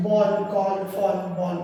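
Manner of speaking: বল, কল, ফল each with the same অ vowel; A sounded as অ. Shown as a demonstration. Teacher recapping examples, বল, কল, ফল said with অ. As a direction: list বল, কল, ফল, keeping অ in each. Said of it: "এর উচ্চারণ অর মতো হচ্ছে".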